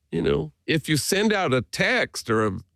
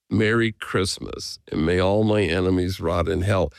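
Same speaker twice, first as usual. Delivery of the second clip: lower, slower and weighty, each word laid out; low, slow ominous quote; 6 semitones lower than usual. Retold or imitated. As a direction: drop the voice and read the curse slowly, like a warning. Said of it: "nobody well has ever sent that".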